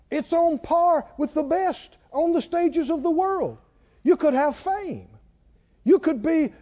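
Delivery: high, coaxing tempter voice; the devil flattering a woman, high and coaxing; flattering evil spirit. Acted. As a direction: sweet-talk her like a seductive spirit.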